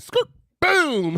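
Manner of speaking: high-pitched crash sound effect; skidding, then a booming impact; imitated crash noise. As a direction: act out the skid and bang. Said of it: "that joint said".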